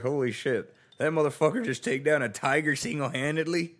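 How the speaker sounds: high, loud and fast in awe; loud awestruck outburst; amazed exclamation. Retold or imitated. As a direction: blurt it out in disbelief. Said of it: "you're like".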